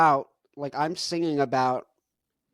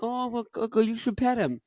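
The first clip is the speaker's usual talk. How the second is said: imitating a listener; 8 semitones higher than usual. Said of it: "and you're like".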